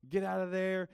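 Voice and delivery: commanding. Retold or imitated. Pastor voicing Jesus driving out demons, loud command. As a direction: order them out with full force.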